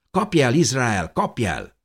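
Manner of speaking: put-on high child's calling-out; teasing high child voice, dropping at the end; playful little girl. A narrator's reading. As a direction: call out to start a game of chase. Girl calls brother to chase her.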